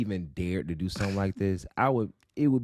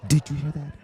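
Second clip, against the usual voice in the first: louder, higher excited repeat; 8 semitones higher, 5 dB louder than usual. Acted. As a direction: blurt it out excitedly. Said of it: "said twice, whisper then loud".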